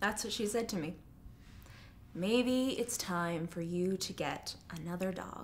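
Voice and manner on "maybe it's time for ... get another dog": low, uninterested, bored tone. Retelling what a woman said to her about her grief, imitating a bored tone. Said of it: "In this, like, bored tone".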